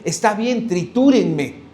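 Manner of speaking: Christ accepting suffering. Acted.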